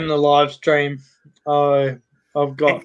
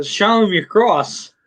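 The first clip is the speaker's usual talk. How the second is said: nun's line; 5 semitones higher, slower than usual. Acted. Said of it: "says to the other nun".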